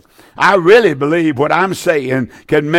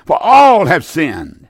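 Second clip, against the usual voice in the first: slow emphatic reading. Shown as a demonstration. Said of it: "Listen to me now".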